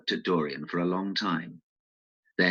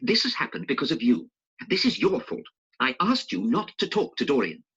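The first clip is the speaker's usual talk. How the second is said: angrily; 7 semitones higher than usual. A narrator's reading. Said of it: "said Basil angrily".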